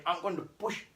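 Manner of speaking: starts soft, then climbs high on keep in; mock inner voice. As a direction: coach yourself through the squeeze in your head. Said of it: "as well as you telling your brain".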